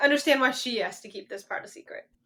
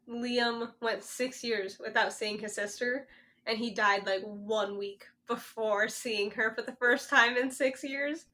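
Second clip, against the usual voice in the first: sad; 2 semitones lower, 4 dB quieter, slower than usual. Real, not acted. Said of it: "It's really sad".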